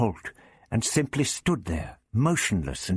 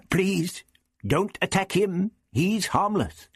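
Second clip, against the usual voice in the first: pleading; 11 semitones higher than usual. A narrator's reading. The Doctor pleads for the Zarbi.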